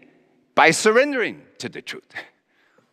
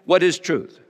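disdainful question; 3 semitones higher than usual. Retold or imitated. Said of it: "I said that with some disdain".

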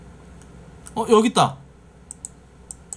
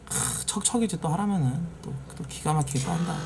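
normal talking voice

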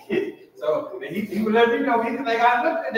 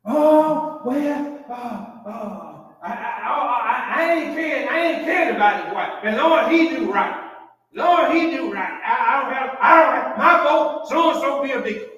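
mock flustered voter; 5 semitones higher, 4 dB louder than usual. Mocking a church voter excusing him.

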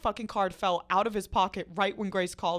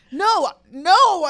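high, very loud mock protest; retold scream; 9 semitones higher, 14 dB louder than usual. Screaming back to friend down the train, loud high denial. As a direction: holler the denial, hammed up. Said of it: "And I'm screaming".

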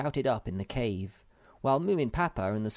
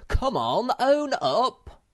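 high, loud demand; screamed; 13 semitones higher, 8 dB louder, much slower than usual. A narrator's reading. Moomin Troll presses Sniff to confess, screaming. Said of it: "screamed Moomin Troll".

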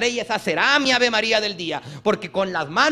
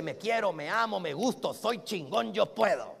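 softer, private mirror talk; soft self-affirmation; 6 dB quieter than usual. Shown as a demonstration. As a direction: say it quietly to yourself in the mirror. (afirmación suave ante el espejo)

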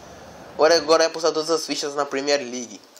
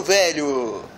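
ordinary delivery

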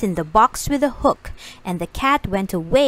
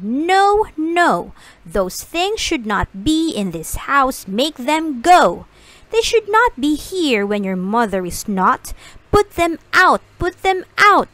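alarmed fish; 3 semitones higher than usual. Acted. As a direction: make them go, fretful and shrill-pitched. Fish objects to the Things.

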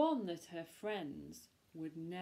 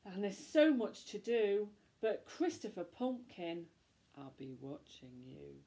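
menacing witch. Acted. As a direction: warn him darkly. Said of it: "snapped the witch".

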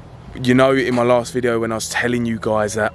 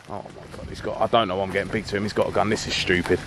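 soft, fast, breathy muttering to himself; panicked second thoughts under the breath; frightened whisper; 3 semitones lower, 5 dB quieter, faster than usual. Acted. Vlogger regretting provoking the gunman, frightened whisper. Backs off, scared aside.

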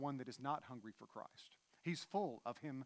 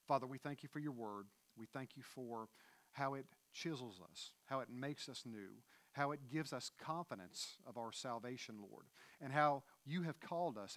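closing prayer. Acted.

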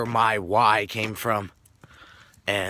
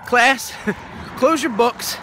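teacher addressing the class; 8 semitones higher than usual. Retold or imitated. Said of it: "she goes".

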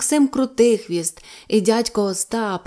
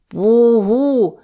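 answering call; 3 semitones higher, 7 dB louder than usual. Acted. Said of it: "відповіли йому".

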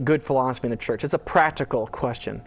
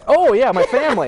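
laughing while answering, a bit louder and higher; 10 semitones higher, 9 dB louder than usual. Real, not acted. Host asks if he is married, guest answers laughing. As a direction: laugh it off, caught out. Caught out by the question about marriage.

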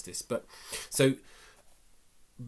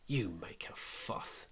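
said angrily; 5 dB quieter, much slower than usual. Acted. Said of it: "she said angrily".

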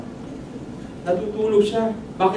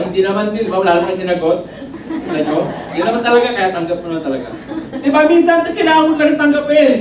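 chuckling while teasing himself; real laughter over the words; laughing through words; faster than usual. Real, not acted. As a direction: laugh as you tease the crowd. Joking about his own looks.

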